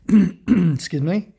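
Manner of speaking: hoarse croaky voice from a virus; croaky, slowed by a sore throat. Real, not acted. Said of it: "sorry about the, um, croaky voice".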